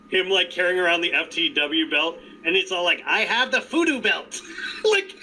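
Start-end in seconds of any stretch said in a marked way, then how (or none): 3.0-4.4 laughing through a creepy character voice; Danhausen impression. Fan doing Danhausen for friends, laughing in a creepy voice. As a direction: grin and lean into the spooky villain. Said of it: "you're doing good impression".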